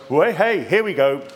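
gleeful demon. Acted. Demon pouncing on someone not born again, gleefully. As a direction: crow it like a demon spotting easy prey. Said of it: "the demon turns around and goes".

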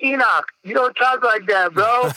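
lightly acted parental reproach; retold mild scolding. Acted scolding of his son.

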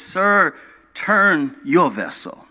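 slow, calm, unbothered answer; calm reply. Acted. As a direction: say it evenly, no heat. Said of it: "he calmly hears a voice back".

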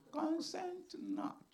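slow, hushed whisper; a slow secret whisper of caution; whispered warning. Acted. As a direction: breathe the warning out slowly. Quoting Proverbs warning.

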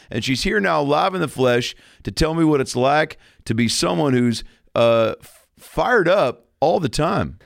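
lightly voiced TV host; smooth host intro patter; talk show host.

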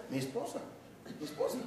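half-crying complaint, barely voiced; husband lamenting his wife to his friend; whimpering husband.

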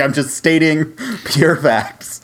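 slow, laughing mock sass; laughing quote. She looked at me, slow amused mock sass. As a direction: drag it out through a laugh. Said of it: "She literally looked at me and was like".

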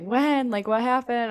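a curious sister asks how it happened; surprised sister. Retold or imitated. Surprised sister asking to hear how it happened.

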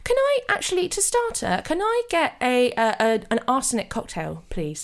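hammed-up French waiter accent. Waiter serving a diner arsenic cocktails, French accent. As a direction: play a fussy French waiter, lilting.

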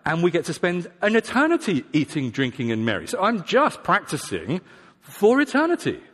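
breezy, self-justifying reply, lively swings in pitch; carefree excuse. Acted. Presumptuous believer excusing sin to himself, carefree. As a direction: shrug it off with cheeky relish. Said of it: "Their response, whether they say it or not".

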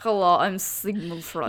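badly faked German accent; Sigmund Freud. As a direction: introduce yourself in a shaky German accent. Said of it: "You need to work on your German".

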